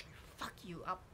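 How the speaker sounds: unvoiced threatening whisper; whispered threat as the angry inner girl; menacing whisper. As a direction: hiss the threat softly. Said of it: "She's like that".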